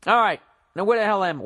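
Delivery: hoarse, cracking voice. Real, not acted. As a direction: voice breaking after a night of yelling. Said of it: "Why is my voice cracking?".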